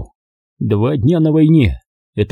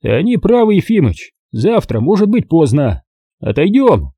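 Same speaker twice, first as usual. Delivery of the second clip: put-on gentle old comrade; 5 semitones higher than usual.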